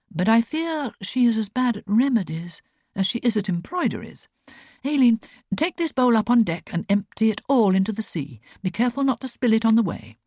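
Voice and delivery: crisp, knowing aunt passing on sailors' news; Aunt Beck's voice. A narrator's reading.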